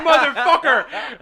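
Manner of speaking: loud, high mock outrage; retold furious yell. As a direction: yell it like the last straw. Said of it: "And I was like".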